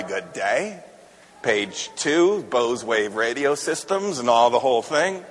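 put-on deep, soft old radio newsman; low, measured radio announcer read; Paul Harvey impression. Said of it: "So we would listen to Paul Harvey".

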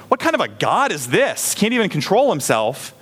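mild mock contempt at God; scornful question. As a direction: sneer at a God out of control. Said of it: "I'm no longer asking".

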